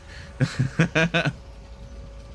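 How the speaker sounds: breathy high laugh, almost silent; high airy giggle. Real, not acted. Player giggling at the game, airy and high. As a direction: giggle under the breath at the joke.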